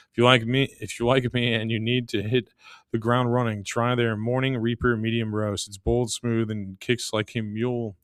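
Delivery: sponsor read in an even pitch. Acted. Host pitches coffee to listeners, scripted ad read. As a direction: read the sponsor copy straight through.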